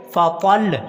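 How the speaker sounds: फ़तल ending on a held double L, no vowel after; stressed shad ending. Shown as a demonstration. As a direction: stop firmly on the doubled L of फ़तल. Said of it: "सिर्फ शद पढ़ी जाएगी". (फ़तल के लाम पर सिर्फ़ शद)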